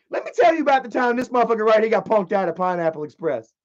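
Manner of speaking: put-on ranting storyteller; imitated indignant woman. Girlfriend retelling how he got punked out, mock indignant. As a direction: mimic her telling it yet again, worked up. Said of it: "she's like".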